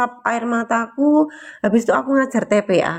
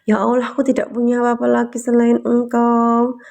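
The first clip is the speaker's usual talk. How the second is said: tearful prayer. Retold or imitated. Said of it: "kayak gitu ya, aku ya".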